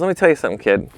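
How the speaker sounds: imitated thick accent, starting high; Gilles Bensimon's thick accent. Famous photographer advising a beginner, in a thick accent. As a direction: lecture a youngster in a put-on thick accent. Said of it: "with his thick accent".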